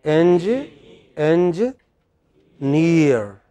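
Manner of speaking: "engineer" split by pauses, enji, then a long NEER; broken into parts. Shown as a demonstration. Teacher drills the class on the word, syllable by syllable. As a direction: build "engineer" piece by piece, landing on NEER. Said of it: "Imagine you are pronouncing this".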